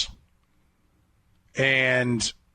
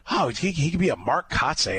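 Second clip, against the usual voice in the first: mocking echo; 4 semitones higher than usual. Host retelling the scout's comparison, mildly mocking it. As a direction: repeat the scout's line in a higher, mildly mocking voice. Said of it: "That's what it was".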